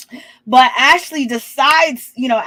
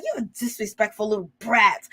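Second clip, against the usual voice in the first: Daffy Duck voice; 6 dB quieter than usual. Retold or imitated. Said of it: "She does not sound like Daffy Duck".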